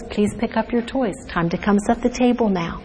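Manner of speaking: calm normal tone. Shown as a demonstration. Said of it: "say it in a normal tone of voice".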